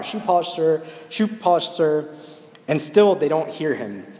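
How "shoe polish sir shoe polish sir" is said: higher, louder street call over the crowd; boy straining to be heard, pitched up and louder; crying out louder. Retold or imitated. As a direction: push the shoe shine call above a busy station. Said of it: "tries to cry out louder".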